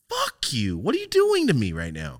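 high-pitched, hammed-up angry rant; overacted outrage at the boss; mock angry rant. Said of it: "that's the way I was coming off".

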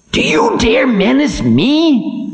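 slow, high outraged challenge; high defiant menace. Acted. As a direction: hurl the challenge back. Time defies demon.

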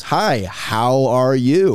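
slow, drawn-out imitated hello; imitated greeting. Her greeting retold to the group, slowly drawn-out imitation. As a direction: stretch out the greeting, mimicking her. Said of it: "and she goes".

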